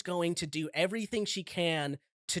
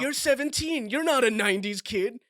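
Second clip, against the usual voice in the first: incredulous; 6 semitones higher, 4 dB louder than usual. Retold or imitated.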